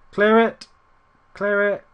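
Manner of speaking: high, loud call to the defence; pressing, repeated sideline yell; urgent shouting. Real, not acted. Urging defenders in the game.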